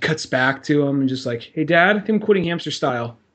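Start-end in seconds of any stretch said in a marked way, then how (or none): 1.5-3.1 acted choked up, close to tears. Retelling a movie scene where a son tells his dad: imitating someone near tears. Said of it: "quivering lip, like, on the verge of tears".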